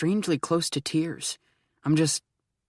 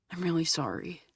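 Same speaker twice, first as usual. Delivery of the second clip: whispering; 3 semitones higher, 7 dB quieter than usual. A narrator's reading. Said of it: "I whisper".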